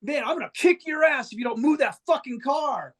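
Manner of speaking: high mock angry yell; imitating a furious shout out the bus window; retold yell. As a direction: bark threats at the driver. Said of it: "starts yelling at the guy".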